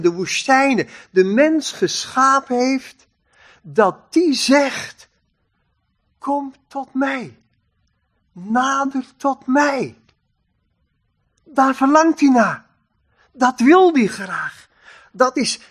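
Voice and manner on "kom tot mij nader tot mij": gentle, measured invitation to come near; tender invitation. Acted. God tenderly invites people near. (zachte, liefdevolle uitnodiging)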